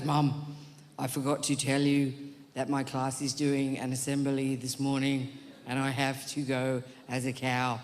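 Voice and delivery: flat low monotone voice, no inflection at all; monotone kid. Retold or imitated. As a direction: drone it out like a kid with zero inflection. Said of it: "born without any inflection in his voice whatsoever".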